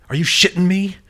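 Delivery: high, loud incredulous outburst; angry disbelief. Acted. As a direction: blurt it out in furious disbelief. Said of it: "Diane asked angrily".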